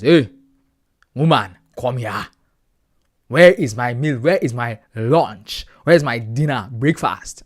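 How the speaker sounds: loud demanding husband calling for his meal; mock macho husband shouting for food; bossy African husband. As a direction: bark orders at the woman like a macho husband. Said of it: "I'm not one of those African guys".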